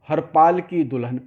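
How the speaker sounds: HAR PAL joined as one name, then की; run-together words. Shown as a demonstration. Teacher showing the misreading of a verse, run-together words. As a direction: say हर पाल as a single name, Harpal. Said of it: "जब आप ज़्यादा बोलोगे".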